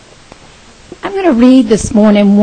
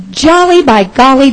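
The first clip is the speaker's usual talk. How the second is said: jolly exclamation; 4 semitones higher, 4 dB louder than usual. Acted. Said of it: "Barney said with a kick".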